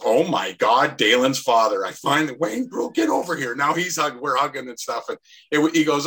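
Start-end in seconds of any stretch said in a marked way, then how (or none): 0.0-3.5 imitating an old teammate's amazed greeting; retold delighted surprise.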